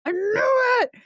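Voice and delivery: high, loud triumphant crowing; gloating shout. Retold or imitated. Wife crowing to her husband that she knew it, loud gloating shout. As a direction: crow it like you were proven right.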